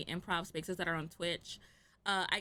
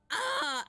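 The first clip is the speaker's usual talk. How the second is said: cringing groan; 14 semitones higher, 3 dB louder than usual. Real, not acted. Cringing at remembered bad accent.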